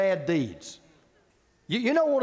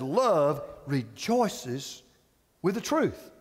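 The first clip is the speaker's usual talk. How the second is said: slow emphasis; 7 semitones lower, much slower than usual. Acted. Slow scripture quote.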